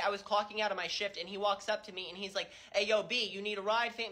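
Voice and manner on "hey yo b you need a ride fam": lightly voiced white boy talking like a rapper; a hint of laid-back rapper slang. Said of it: "talks like Jack Harlow".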